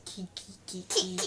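soft little animal squeaks; imitated animal noise. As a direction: quietly mimic an unknown animal. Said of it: "what animal makes the noise".

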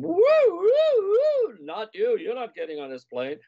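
high squealing machine alarm. Retold or imitated. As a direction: mimic a beeping gate rejecting you. Airport machine rejects passport.

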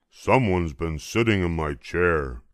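lightly voiced papa bear; a hint of a big bear voice. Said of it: "in his great big voice".

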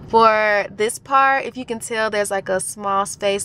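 talking with lip held back; finger pulling lip up. Real, not acted. Seen 0: Finger with blue nail pulls upper lip up, exposing braced teeth.

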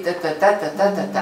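even ta ta syllables, stressed at the end; monotone rhythm demo. Shown as a demonstration. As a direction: tap out a flat French rhythm. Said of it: "accentué sur la dernière syllabe sonore". (démonstration du rythme monotone du français)

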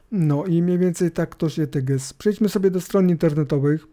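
usual speaking voice

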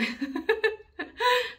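loud, very high laugh; real cackling laugh; burst of laughter. Real, not acted. Storyteller laughs at money wasted for nothing, laughing hard. Laughing after closing remark.

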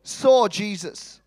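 slow, stretched saw in "saw Jesus"; drawn-out saw. Shown as a demonstration. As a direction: lean on saw and draw it out. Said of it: "everyone say saw".

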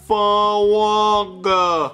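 "Frog" as long low "fuh-wog-uh"; childish, very slow "fwog-uh" for "Frog"; mispronounced R. Acted. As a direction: drag "Frog" out with W for R. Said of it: "There's no W".

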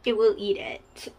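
lightly voiced Transylvanian warning; mock Transylvanian accent, only lightly done; Transylvanian vampire accent. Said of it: "I don't know what accent that was".

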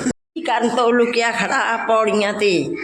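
slow, laughing question. Real, not acted. Laughing at hiding dog. (ਹੱਸਦੇ ਹੋਏ ਪੁੱਛਣਾ)

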